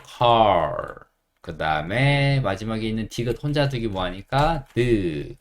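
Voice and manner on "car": 컬 as English car with a curled final r; English R ending. Shown as a demonstration. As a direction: blend an r onto the end of 컬. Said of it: "약간 받침으로 오면서".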